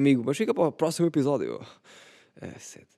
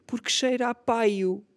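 high pitched; 11 semitones higher, slower than usual. Acted. Joking about burp smell.

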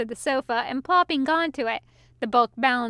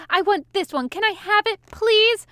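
wheedling plea rising higher, please loudest; pleading; 8 semitones higher, 4 dB louder than usual. A narrator's reading. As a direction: beg like a child for a treat. Demon begging for the book.

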